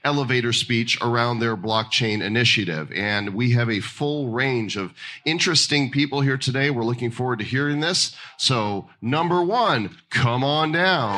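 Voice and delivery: lifted-pitch announcer opening, slowing on the final call; game-show host. Acted. Host introduces the crypto pitch contest, announcer voice.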